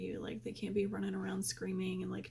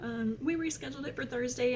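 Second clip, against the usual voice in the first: apologetic receptionist; 4 semitones higher than usual. Retold or imitated. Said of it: "she was like".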